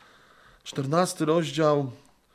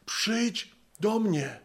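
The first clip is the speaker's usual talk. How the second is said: very slow, gentle call; tender invitation; 4 semitones higher, much slower than usual. Pretend. Jesus calls each of us every morning, slow and tender.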